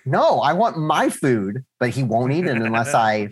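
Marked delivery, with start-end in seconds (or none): 0.1-1.6 drawn-out slow protest; slow, half-joking complaint; slow mock whine. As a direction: stretch it out like a put-upon dad. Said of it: "And I'll be like".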